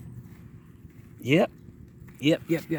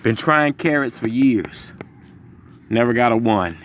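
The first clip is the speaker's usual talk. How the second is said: breathless; 4 semitones lower than usual. Real, not acted. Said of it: "forgive me for breathing so hard".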